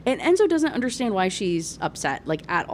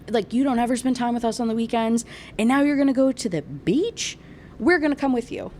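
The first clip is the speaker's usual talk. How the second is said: whiny, higher wife voicing a complaint; Millie; 3 semitones higher than usual. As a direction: play the nagging wife, pitched up. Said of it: "And Millie is like".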